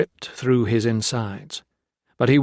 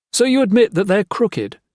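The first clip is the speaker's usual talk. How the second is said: mild tense challenge; 10 semitones higher, 5 dB louder than usual. Acted. Gray and Jones quarrel over weights.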